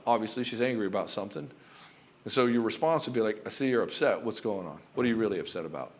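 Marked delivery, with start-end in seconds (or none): 3.4-5.9 calm and certain. Shown as a demonstration. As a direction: answer her calmly from a place of power. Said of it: "with a calm certainty and power".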